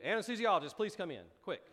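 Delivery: hammed-up husband yelling for rescue; mock panicked call. Husband calls for the anesthesiologist, mock panicked yell.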